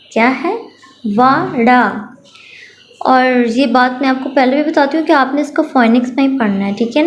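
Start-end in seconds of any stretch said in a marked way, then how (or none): 1.1-1.8 teacher giving the answer; answer to the drill. Shown as a demonstration. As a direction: clear blended word with falling end. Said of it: "चलिए मैं पढ़ती हूँ".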